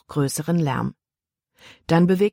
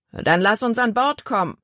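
a big man's harsh question, higher and pressing; tall man, demanding; 5 semitones higher than usual. A narrator's reading. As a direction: push him for the first mate.

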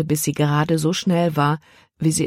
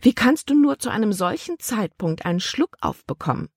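a higher, prim aunt voice, lightly done; a hint of a disapproving old aunt; lightly voiced stern aunt; 6 semitones higher than usual. Aunt lecturing her niece about marriage, lightly voiced, higher and prim.

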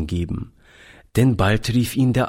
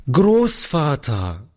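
sudden call; 6 semitones higher, slower than usual. A narrator's reading. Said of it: "rief er plötzlich".

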